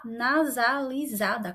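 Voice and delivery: nasalizada drawn out slowly, syllable by syllable; slow careful syllables. Shown as a demonstration. Teacher shows students the nasal word, slowly. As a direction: ease out nasalizada slowly as if the word won't come. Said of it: "quase não sai aqui a palavra".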